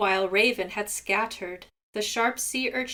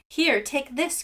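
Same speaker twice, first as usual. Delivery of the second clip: crying out; 5 semitones higher than usual. Acted. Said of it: "cried Seagull".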